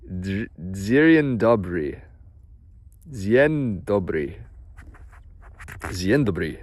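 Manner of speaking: careful Polish greeting, slow; slow put-on Polish accent. Shown as a demonstration. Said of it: "I don't know why I say it in that accent".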